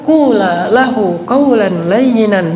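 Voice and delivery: slow, measured Arabic recitation; unhurried scripture chant; Quran recitation. Acted. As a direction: recite it slowly and reverently.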